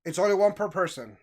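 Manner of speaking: imitated defensive store clerk. Clerk telling customers the limit, defensive. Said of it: "immediately starts very defensive and goes".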